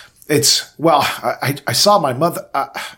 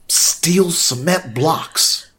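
awed whisper; 8 semitones higher, 6 dB louder, much slower than usual. Acted. Marveling at thighs, whispered.

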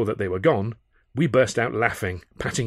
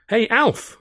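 much higher, sung-out call; 14 semitones higher, 7 dB louder than usual. A narrator's reading. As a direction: sing it out across the bar. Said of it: "I sang out".

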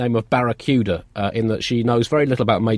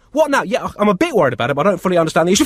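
distracted parent; 7 semitones higher, faster than usual. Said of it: "You're probably gonna hear them say".

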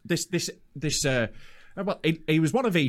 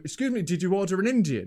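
put-on Indian accent; 3 semitones higher than usual. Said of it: "one of these accents".

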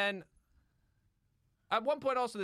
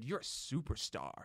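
soft, slow and soothing praise; gentle Mary Poppins; 10 semitones lower, 8 dB quieter than usual. Retold or imitated. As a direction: coo it gently like a kindly nanny. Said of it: "midwife that was like Mary Poppins".

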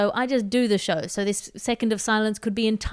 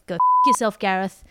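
louder, hammed-up telling-off; mock furious rant; 5 dB louder than usual. Host mock-ranting at a listener's stupid question, loudly. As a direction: blow up at the letter writer, half joking.

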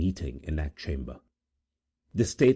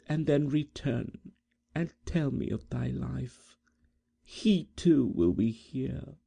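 gentle maiden; 9 semitones higher than usual. Acted. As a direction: speak like a prophecy. Edith speaks wild words.

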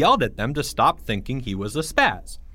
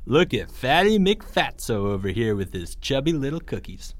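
mocking bully. Greg mocks Porge.

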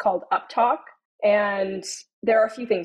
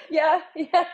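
laughing; 8 semitones higher than usual. Real, not acted. Laughing at the joke.

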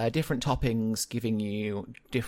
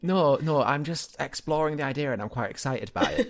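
stifled giggles; 3 semitones higher, 4 dB louder than usual. Real, not acted. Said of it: "I can hear you trying not to laugh".

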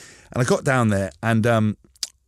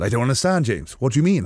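mock bewildered Welsh coach. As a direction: play the confused coach hearing bad news. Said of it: "I was like".

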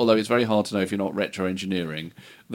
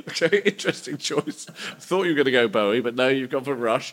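record boss. Pretend. Record boss reacting to a band idea.

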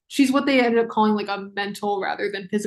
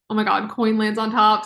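excited realization. Real, not acted. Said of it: "why I'm acting like that".

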